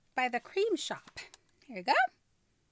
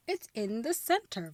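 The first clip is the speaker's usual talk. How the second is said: surprised. Real, not acted. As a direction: repeat it back in disbelief. Echoing in disbelief.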